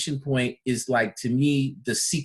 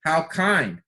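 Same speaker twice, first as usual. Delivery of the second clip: grateful reply to a compliment; grateful thanks; 4 semitones higher than usual. Shown as a demonstration. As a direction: thank them and mean it.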